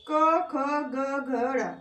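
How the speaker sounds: each letter drawn out evenly; slow letter recitation. Shown as a demonstration. Teacher recites the क group for students, slow and drawn out. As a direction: recite the letters slowly, one by one.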